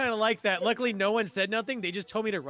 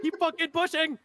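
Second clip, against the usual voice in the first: high-pitched urgent command; excited, raised-pitch bark; imitated sergeant's order; 8 semitones higher than usual. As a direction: act out a sergeant ordering push-ups. Retelling sergeants ordering push-ups.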